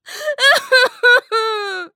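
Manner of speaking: put-on high, childish wailing cry; high wailing sob. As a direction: burst into a whiny sob like a child. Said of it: "Mom began to cry".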